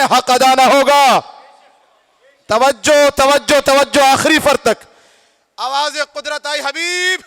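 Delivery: projected sermon storytelling; preacher voicing narration and calls; dramatic preaching. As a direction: declaim the sacred story in short, weighted phrases.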